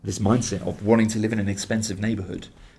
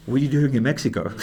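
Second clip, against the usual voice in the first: laughing; 6 semitones higher, 7 dB louder, faster than usual. Retold or imitated. Retells black-eyed guy's question.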